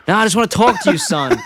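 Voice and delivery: quoting through a laugh; amused, half laughing line; laughing quote. Retold or imitated. Voicing Homer, laughing.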